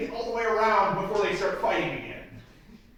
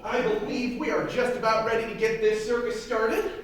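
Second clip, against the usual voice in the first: grand showman announcement, slowing down; circus ringmaster. Acted. Ringmaster opens the flea circus.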